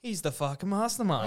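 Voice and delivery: laughing through a retold line; laughing quote. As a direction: giggle the words as you retell them.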